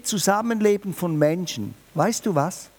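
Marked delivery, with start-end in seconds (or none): none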